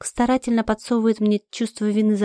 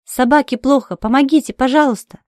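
loud, higher frantic cry for help; calling for help at the vet clinic; shouting for help; 4 semitones higher, 5 dB louder than usual. Acted. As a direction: burst in yelling for help. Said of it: "кричу".

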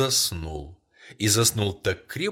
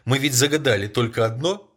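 eager; 4 semitones higher, 7 dB louder than usual. A narrator's reading. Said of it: "отвечала она".

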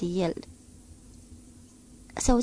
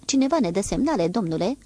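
hurried; 3 dB louder than usual. Acted. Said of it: "spuse în grabă".

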